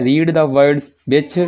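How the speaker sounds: very slow, word by word dictation; slow reading aloud. Shown as a demonstration. Teacher reads the English instruction very slowly to the class. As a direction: read each word out slowly for students.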